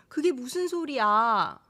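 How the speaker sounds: demonstrated incredulous question, falling at the end; surprised disbelief. Shown as a demonstration. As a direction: ask in mild astonishment. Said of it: "you are surprised to hear that news".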